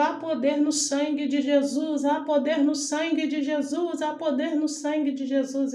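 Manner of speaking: mild mock yell, repeated like a chant; retold cry of faith. Woman waking her family from a nightmare, retold cry. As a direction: imitate crying it out over and over, volume held in. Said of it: "porque eu gritava".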